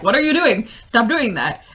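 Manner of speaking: Lando. Acted. Lando upset at the end of Solo, mock scolding. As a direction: playfully scold in exasperation. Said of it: "it's Lando being incredibly upset".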